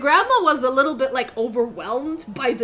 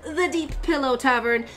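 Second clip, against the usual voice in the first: excited; 4 semitones higher than usual. Acted. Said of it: "he starts getting excited and goes".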